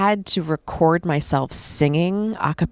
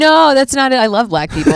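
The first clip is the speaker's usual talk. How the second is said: laughing protest; 9 semitones higher, 7 dB louder than usual. Real, not acted. Defensive denial, laughing.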